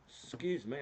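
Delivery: talking through the hiccups; speaking with the hiccups. Real, not acted. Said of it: "I've got the hiccups".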